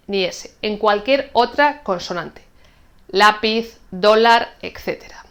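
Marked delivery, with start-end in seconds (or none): 3.1-3.8 "Lápiz" stressed on the opening Lá; stress on penultimate syllable. Shown as a demonstration. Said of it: "acento en la segunda sílaba por atrás". 3.9-4.5 "dólar" stressed on the opening dó; stress on penultimate syllable. Shown as a demonstration. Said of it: "acento en la segunda sílaba por atrás".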